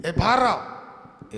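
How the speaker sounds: slow, firm wife ordering him out; housewife scolding. Retold or imitated. Wife tells her husband to stay outside, slow and firm. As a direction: stop him at the door, drawn out. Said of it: "बोल देते हैं महिलाएं".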